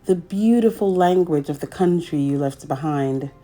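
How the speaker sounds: gentle, measured picture-book narration; reading to children. A narrator's reading. Storyteller reading a picture book to young children, gently.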